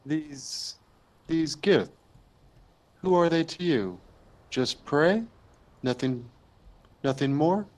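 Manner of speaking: lightly voiced insect creature; a hint of a bug, questioning. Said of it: "bug voice".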